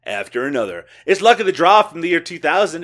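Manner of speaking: light radio countdown host impression; a hint of syndicated radio presenter; Casey Kasem. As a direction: read it like a countdown announcer, stressing key phrases. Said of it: "I was doing my Casey Kasem".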